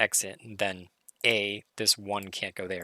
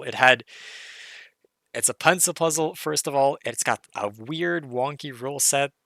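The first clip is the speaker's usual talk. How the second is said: enthusiastic; 3 semitones higher, 4 dB louder than usual. Real, not acted. Gushing about the puzzle.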